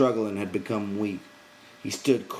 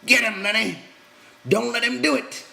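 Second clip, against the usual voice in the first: loud, high urgent yell; 6 dB louder than usual. A narrator's reading. George yells at Lenny to fight back, loud yell. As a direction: shout encouragement across the room.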